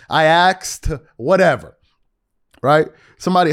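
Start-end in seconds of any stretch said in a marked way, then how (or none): 0.1-0.9 slow, deliberate "asked" said as "axed". Real, not acted. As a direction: draw out "asked" with the k before the s, "aks-t". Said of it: "how do I say ask".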